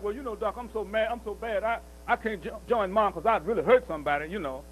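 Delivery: mock excuse. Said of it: "we sit around playing crazy, pretending like".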